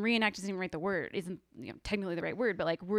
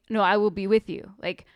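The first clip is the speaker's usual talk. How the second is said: emphatic loud; 8 dB louder than usual. Retold or imitated. Emphatic quote of Jesus' promise.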